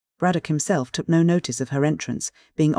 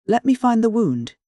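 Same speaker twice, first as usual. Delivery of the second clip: much higher, louder scream; 8 semitones higher, 4 dB louder than usual. A narrator's reading. Widow lunges toward the body, screaming. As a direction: fling the words out frantically. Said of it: "she screamed".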